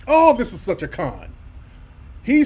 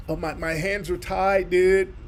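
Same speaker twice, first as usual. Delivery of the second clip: surfer dude. Retold or imitated. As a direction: play it limp and helpless. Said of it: "Now he's acting so weak".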